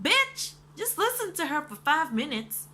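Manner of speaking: high, loud yell at the screen; exasperated yell. Retold or imitated. Viewer yelling at the show's hero, exasperated. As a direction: shout at the character to listen.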